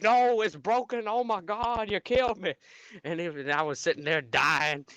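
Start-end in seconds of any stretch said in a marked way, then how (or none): 0.0-2.5 mock whine. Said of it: "I was like".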